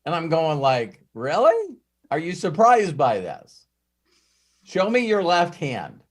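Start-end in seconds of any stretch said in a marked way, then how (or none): 1.1-6.0 sarcastic. Retold or imitated. Sarcastic reply to lost driver.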